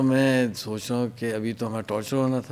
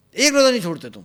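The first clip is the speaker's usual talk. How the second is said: incredulous question; 9 semitones higher, 6 dB louder, faster than usual. Retold or imitated. General incredulous interrogation.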